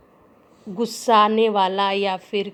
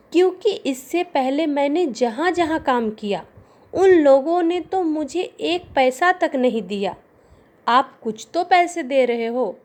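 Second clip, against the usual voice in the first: frightened voice; 4 semitones higher than usual. Acted. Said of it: "भयभीत स्वर में".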